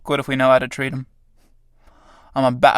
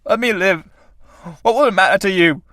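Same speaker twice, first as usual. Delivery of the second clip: high, strained begging, climbing; desperate pleading; 6 semitones higher than usual. Acted. Tramp begging death to let him live, high desperate plea. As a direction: beg for breath, pitch rising to the end.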